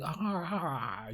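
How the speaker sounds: drawn-out gawking ahs; mock awed "ah". Everyone stuck staring after the blast, mock awe. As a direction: imitate a crowd stuck in awe. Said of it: "like, in awe".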